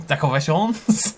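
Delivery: hammed-up Italian accent, drawn out; playful fake Italian. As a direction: stretch "decorations" out in a mock Italian accent. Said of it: "Forgot Italian".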